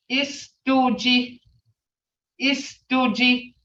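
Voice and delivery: Istuji drawn out, rising at the end; slow sounded-out Muskogee word. Shown as a demonstration. Teacher modelling Istuji for the class. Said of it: "See that?".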